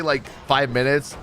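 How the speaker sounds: ordinary talk, nothing marked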